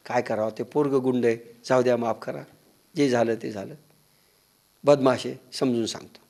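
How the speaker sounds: low, soft placating father; helpless dad apologising for his boy; resigned apology. Acted. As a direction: shrug off the complaint in a quiet, low voice. Father placating a complaining neighbour.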